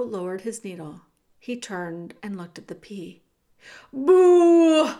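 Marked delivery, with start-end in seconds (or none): 3.9-4.9 high, very loud boo; long heckling boo; shouted boo. A narrator's reading. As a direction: jeer at full volume. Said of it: "shouted Bertoli again".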